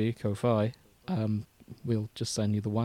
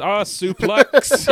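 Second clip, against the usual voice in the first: wrestling yell; 7 semitones higher, 8 dB louder, much slower than usual. Acted. Mock wrestling move.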